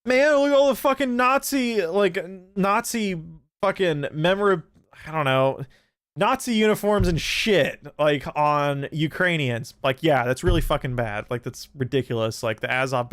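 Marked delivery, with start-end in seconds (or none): 0.0-9.7 high, whiny mock voice of online commenters; sarcastic impression of people online; mocking quote. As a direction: parody the outraged Twitter crowd. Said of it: "people are like".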